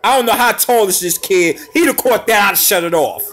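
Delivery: loud, high, worked-up rant; can't believe it almost happened; worked-up excitement. Real, not acted. Swearing he'd quit if the player caught it, worked up. Near-miss highlight reaction.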